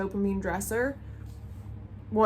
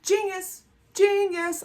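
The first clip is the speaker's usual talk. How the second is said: high, delighted "genius" exclaimed twice; excited gushing; 10 semitones higher, 5 dB louder, slower than usual. Retold or imitated. To herself on seeing the striped cables, thrilled. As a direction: gush with sudden delight. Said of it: "and I was like".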